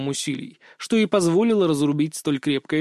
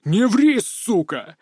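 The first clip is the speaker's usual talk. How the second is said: roaring; 5 semitones higher, much slower than usual. Acted. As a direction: bellow it in rage. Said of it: "взревел командир".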